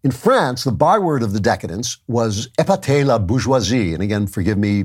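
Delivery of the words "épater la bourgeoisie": amateur attempt at a French accent; poor French accent. Shown as a demonstration. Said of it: "my poor French accent".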